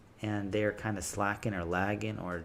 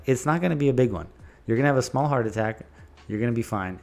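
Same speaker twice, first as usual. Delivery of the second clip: playful, smiling reassurance; 5 dB louder, faster than usual. Retold or imitated. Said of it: "with a great attitude and a great smile".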